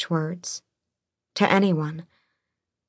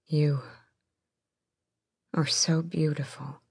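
hushed whisper; 7 dB quieter than usual. A narrator's reading. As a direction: breathe it in awe. Rowan admiring her, hushed.

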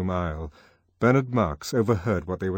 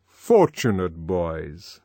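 stately controller; 4 dB louder, much slower than usual. Acted. The Controller addressing the students.

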